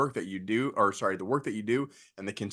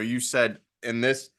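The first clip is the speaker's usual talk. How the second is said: talking through hiccups; hiccuping mid-sentence. Real, not acted. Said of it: "I got the hiccups".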